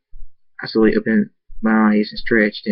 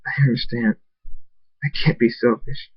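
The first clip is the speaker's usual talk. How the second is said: tearful; 3 dB quieter than usual. Acted. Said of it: "Tears go down my face".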